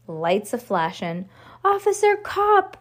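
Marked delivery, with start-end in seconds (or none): 1.6-2.8 high, excited call; crying out. A narrator's reading. Judy hails the officer in the driveway, crying out. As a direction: hail someone eagerly, well above normal pitch. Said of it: "cried Judy".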